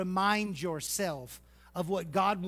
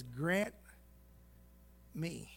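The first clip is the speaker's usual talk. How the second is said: soft, low, reverent plea; hushed petition before the king; humble prayer; 6 semitones lower, 11 dB quieter than usual. Retold or imitated. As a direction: pray it quietly and humbly. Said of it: "He says".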